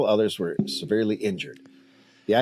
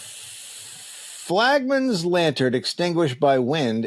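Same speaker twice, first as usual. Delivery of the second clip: dramatic headline read; 5 semitones higher, much slower than usual. Acted. Reading old headline dramatically.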